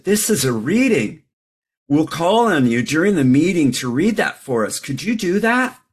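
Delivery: imitating a greeter giving instructions, rising at the end; retold cheery ask; friendly greeter. Greeter asking newcomer, retold.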